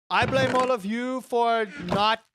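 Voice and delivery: jokingly pin the blame on them; sarcastic. Pretend. Streamer inventing complaints against chat, sarcastic. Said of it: "I'm being sarcastic".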